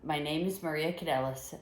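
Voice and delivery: announcing yourself like a wrestler; big ring-announcer intro; wrestling promo. Acted. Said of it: "Cutting a promo?".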